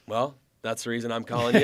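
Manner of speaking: laughing. Real, not acted. Retelling the agent call.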